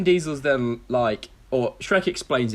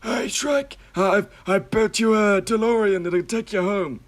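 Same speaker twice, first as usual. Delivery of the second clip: very high-pitched eccentric scientist; hammed-up excited inventor voice, pushed high; Doc Brown; 9 semitones higher, 3 dB louder than usual. Scientist offers the ogre a time machine, high eccentric voice. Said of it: "that's what the, the scientist guy sounds like".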